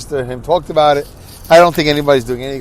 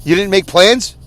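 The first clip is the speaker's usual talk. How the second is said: higher, hammed-up exasperation; mock angry; 5 semitones higher than usual. Brother berating sister over missing funeral plans, mock angry. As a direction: play the fed-up brother demanding an explanation. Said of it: "That's how I'm gonna sound".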